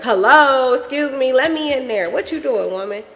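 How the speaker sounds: mock-impatient call, loud on the hello; imitating demanding child. Son banging on mother's door, mock demanding. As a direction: imitate a kid demanding to be let in. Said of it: "he be banging on my door like".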